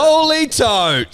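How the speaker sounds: high, slow, awestruck exclamation; drawn-out amazement. Real, not acted. Host unveils the tote bag, drawn-out amazement. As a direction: stretch it out high in wonder.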